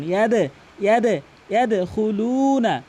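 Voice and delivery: ইয়াদ with bouncing released d; slow ইয়াদখুলুনা as "yad-e-khuluuna"; practice model. Shown as a demonstration. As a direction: echo the d of ইয়াদ clearly. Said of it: "বারবার practice করুন".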